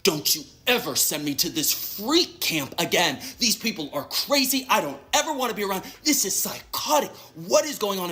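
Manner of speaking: imitating an indignant vent; retold outrage. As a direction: re-enact a fed-up text rant. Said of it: "texting my mom. I'm like".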